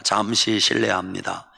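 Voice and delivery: low, formal standard Korean. Shown as a demonstration. Preacher demonstrates a polite phrase, in standard Korean. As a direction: say it in textbook Seoul Korean. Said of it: "이게 표준말이요".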